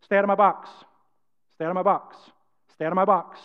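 moderate, only slightly firmer call. Shown as a demonstration. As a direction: say it up a little, not yet bold. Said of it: "Raise it up a little bit".

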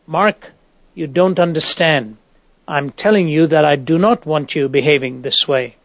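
a hint of a stern, forceful command; strict, authoritative. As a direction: lay down the law to Mark, lightly. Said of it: "more forceful, strict, and authoritative".

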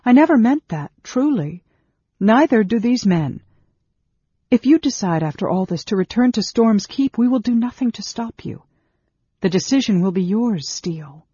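high, loud, urgent denial; impassioned mother's protest; crying out. A narrator's reading. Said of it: "Sarah cried".

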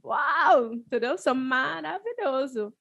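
smug, slow self-praise; conceited. Retold or imitated. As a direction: preen like a show-off. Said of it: "franceses que se achavam".

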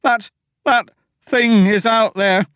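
high, loud, stammering panic; terrified pleading. Acted. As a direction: beg them to flee. Terrified farmer facing the door.

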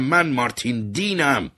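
stuck in a crowd, shouting his name. Acted. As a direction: call over the crowd to be let through. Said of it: "داد زدم".

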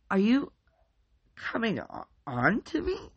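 high, unsure tough guy gone small; a thrown bro asking nervously; smaller voice. A narrator's reading. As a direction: ask it uneasy and shrunk. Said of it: "his voice much smaller this time".

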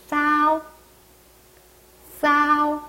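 싸오 with a strong hissed s, tongue tip curled; strong s sound. Shown as a demonstration. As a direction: say 싸오 with s between ㅅ and ㅆ, pitched high and level. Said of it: "약간 강한 시옷으로 보시면 되겠네요".

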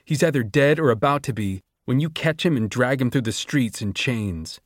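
student raging at the professor about rights; furious outburst. A narrator's reading. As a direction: hurl every accusation at her. Sejanus confronts Doctor Gall.

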